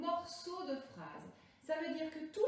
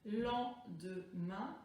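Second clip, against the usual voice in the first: "Lendemain" in three short separated syllables, lower; découpage syllabique; 5 semitones lower, much slower than usual. Shown as a demonstration. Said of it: "Combien de syllabes?". (« Lendemain » découpé en trois syllabes)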